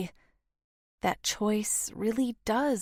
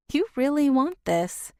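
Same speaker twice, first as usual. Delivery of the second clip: surprised; 7 semitones higher, 5 dB louder than usual. Acted. Teasing doubt, raised voice.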